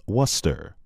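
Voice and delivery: Worcester said "WUSS-ter"; Worcester with the middle swallowed, "WUSS-ter"; correct pronunciation. Shown as a demonstration. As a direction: say Worcester in two syllables, like "wooster" with a short vowel. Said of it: "the correct pronunciation is".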